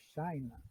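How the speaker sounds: China repeated as CHAI-na, softly; English pronunciation. Shown as a demonstration. Teacher repeats China for students, CHAI-na. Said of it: "em inglês a pronúncia muda".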